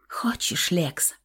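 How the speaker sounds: breathy unvoiced whisper, very soft. A narrator's reading. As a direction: whisper the question right against him. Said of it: "зашептала Оксана". (шёпотом, очень тихо)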